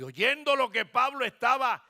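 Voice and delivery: loud, high pulpit proclamation; impassioned preacher's cry; preaching at full force. Acted.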